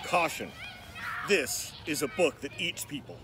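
soft, secretive storyteller warning; hushed warning. A narrator's reading. Narrator quietly warning young listeners of danger. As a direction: lean in and warn the reader in a hush.

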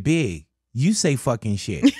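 laughing reveal. Retold or imitated. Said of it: "stepped up and said".

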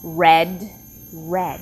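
red said twice alike for a listening test; same-word demo. Shown as a demonstration. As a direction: say red, then red again, identical. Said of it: "for example".

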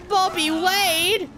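high, slow, stretched Bobby Wade; mock wail. Gamer mourns a bystander with a mock wail. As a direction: wail the name in mock grief.

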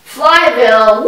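usual speaking voice

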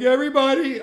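mock cracked high voice; voice breaking. Young manager at angry meeting, mock cracking high voice. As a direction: let the word crack upward like a teen. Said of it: "my voice was still breaking".

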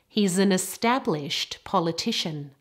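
"established" ending in T, "politician" stressed on third syllable; careful word stress. Shown as a demonstration. Teacher has learners copy, clear stress on "established" and "politician". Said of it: "practice those words with excellent stress".

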